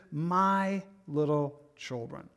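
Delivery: put-on slow, gentle address to dear children; affectionate address. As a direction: say it slowly and fondly. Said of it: "it's a very affectionate way of addressing".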